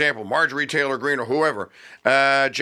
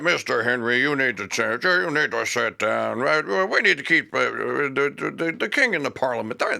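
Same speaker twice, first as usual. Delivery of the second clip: mock loyalist colonists; 4 semitones lower than usual. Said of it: "were going like".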